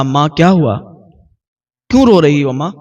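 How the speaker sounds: a touch of gentle loving concern; mild caring son comforting mother; lovingly. A narrator's reading. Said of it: "بہت پیار سے کہا،".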